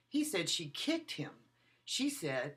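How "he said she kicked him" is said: He raised and punched at the start; stress on HE. Shown as a demonstration. Lecturer demonstrating stress on He again. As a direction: hit He, let the sentence fall after. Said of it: "I changed the emphasis of the word".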